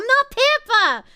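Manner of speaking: loud, high comic protest; indignant outcry. Real, not acted. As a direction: protest it at the top of your voice. Indignant denial to chat.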